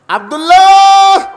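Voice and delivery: high, slow, sing-song savouring of the name; drawn-out name. Pretend. Preacher savouring the son's fine name, high and drawn out. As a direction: stretch the name out high and admiring.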